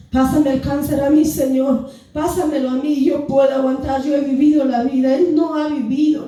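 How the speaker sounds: insistent bargaining with God; urgent, pressing retold prayer; retold desperate plea. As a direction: plead to take the child's place.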